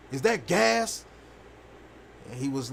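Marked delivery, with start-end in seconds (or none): 0.1-1.0 higher, alarmed father asking; a dad suddenly worried. Retold or imitated. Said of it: "he was like".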